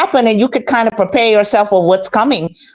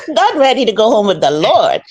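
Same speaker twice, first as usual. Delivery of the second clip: laughing. Real, not acted. Laughing reply to host.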